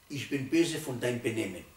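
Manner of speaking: calmer, measured rebuke; right way to scold. Shown as a demonstration. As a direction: aim it at the behaviour, not the child. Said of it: "Ganz andere Sache".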